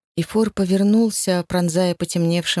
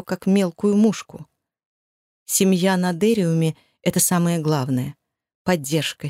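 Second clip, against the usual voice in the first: plain reading voice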